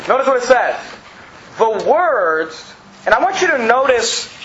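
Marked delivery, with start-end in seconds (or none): 1.6-2.7 WORDS drawn out and set apart; stress on WORDS. Shown as a demonstration. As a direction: lean firmly on "words," then stop. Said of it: "the emphasis on the word".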